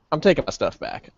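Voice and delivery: deadpan, softened statement. Acted. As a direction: state it with no show of feeling. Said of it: "the most deadpan look on my face".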